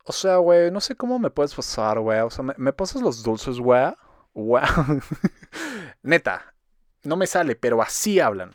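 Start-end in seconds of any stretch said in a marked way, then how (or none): 0.0-4.6 exaggerated Mexican posh-kid "fresa" accent, words stretched out; mock the fresa accent, drawing out every "güey"; acento fresa exagerado. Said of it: "voy a intentar imitar su puto acento". (acento fresa mexicano exagerado, alargando las palabras)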